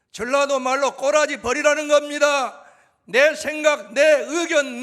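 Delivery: building to a high, loud shouted climax; fiery preacher, crescendo on each 내; preaching at full force. Real, not acted.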